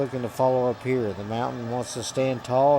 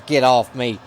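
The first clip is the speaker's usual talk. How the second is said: shouting; 7 dB louder than usual. Acted. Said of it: "and Manny says".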